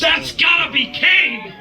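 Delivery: excited shout. Real, not acted. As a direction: yell the guess with delight. Co-host guessing excitedly.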